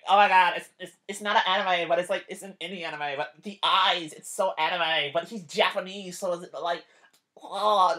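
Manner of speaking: half-hearted parody of an indecisive otaku; mocking anime fans. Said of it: "fuckers who talk like this".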